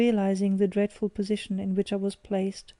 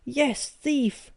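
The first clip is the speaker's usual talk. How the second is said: roar; 4 semitones higher than usual. A narrator's reading. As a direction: roar the insult at him. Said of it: "I roared".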